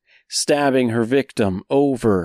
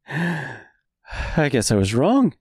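slow smug taunt; gloating villain; 3 semitones higher, much slower than usual. Acted. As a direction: savor the cruelty. Wicked queen gloats, laughing.

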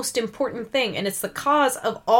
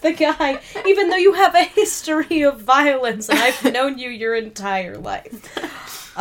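higher, louder mock protest; mock pleading; 5 semitones higher, 8 dB louder than usual. A podcaster mocking Elle's plea, high and loud. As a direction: parody Elle begging, high. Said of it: "And Elle is like".

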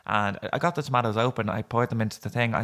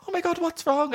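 imitated concern. Doctor reacting to crying patient.

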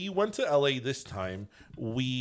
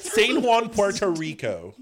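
Spanish-style San Juan, said high; J Lo's Spanish pronunciation of San Juan; J Lo accent; 7 semitones higher, 7 dB louder, slower than usual. Shown as a demonstration. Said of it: "That's how J Lo would say it".

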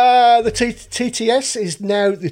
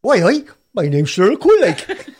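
Cheryl Cole impression. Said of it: "I can do Cheryl Cole as well".

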